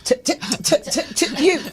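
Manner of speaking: high, loud stuttering call; scolding grandmother. Retold or imitated. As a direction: imitate grandma calling the kid over. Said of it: "my grandmother just went".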